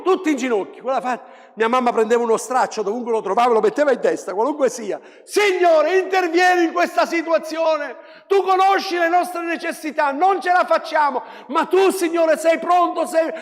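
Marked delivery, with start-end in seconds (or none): 5.2-13.3 higher, louder pleading cry to the Lord; imitating a mother crying out in prayer, higher and louder; mother's fervent prayer. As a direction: call out to God like the praying mother. Mother's loud prayer retold.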